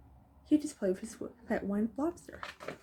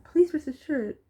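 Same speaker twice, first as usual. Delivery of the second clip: high, loud officious voice; pompous mayor; 4 semitones higher, 5 dB louder than usual. A narrator's reading. Mayor addresses the stuck boy, pompous. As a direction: orate like a self-important mayor. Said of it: "That's the mayor".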